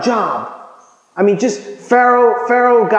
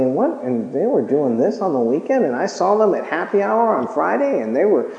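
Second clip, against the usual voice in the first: gossip; 2 semitones lower, 4 dB quieter than usual. Retold or imitated. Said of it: "get started in the gossip thing".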